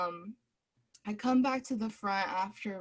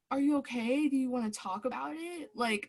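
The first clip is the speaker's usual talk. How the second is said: concerned, caring; 4 semitones higher, 4 dB louder than usual. Retold or imitated. Asking an upset caller.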